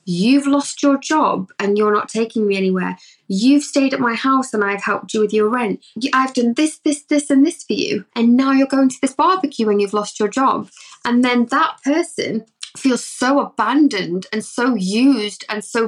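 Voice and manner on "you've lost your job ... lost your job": mock panic, listing grievances; panicked accusation. Overcompensating partner panicking at boyfriend going to barbecue. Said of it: "the panic sets in, the fear".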